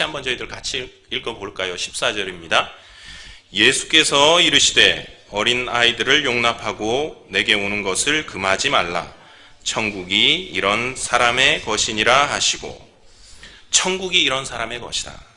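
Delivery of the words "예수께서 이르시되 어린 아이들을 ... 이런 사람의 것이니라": slow, measured verse reading; scripture reading. Acted. Preacher leading the congregation through the verse, slow solemn reading. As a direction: read it out deliberately for all to follow.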